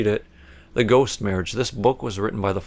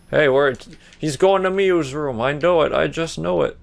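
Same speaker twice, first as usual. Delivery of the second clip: high, urgent worried blurt; alarmed; 6 semitones higher, 3 dB louder than usual. Real, not acted. Player alarmed the ghost is going to Miyu's room, higher pitch. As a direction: fret out loud that he's heading there.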